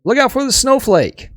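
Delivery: high, loud warning yell; Rins. Acted. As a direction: shout an urgent warning from afar. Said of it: "you hear Rins yell out".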